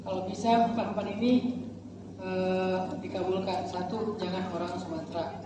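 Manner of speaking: mock prayer. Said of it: "Istri saya dulu berdoanya kayak gini".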